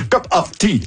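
lightly imitated British accent, pitched high. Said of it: "avec l'accent british".

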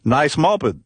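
tossing off a British compliment on the scooter; British accent. Retold or imitated. Paul praising the moped in a light British accent. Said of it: "Il me dit avec son accent british".

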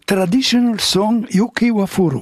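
imitated Japanese-accented English. Singer imitating the air hostess naming the song, Japanese accent. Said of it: "avec l'accent japonais".

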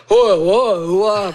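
loud mimicked "oh, oh, oh"; imitated babble. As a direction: mimic talk you cannot understand. Mimics speech she didn't understand.

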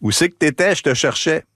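friend's call. Retold or imitated. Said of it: "Il me dit".

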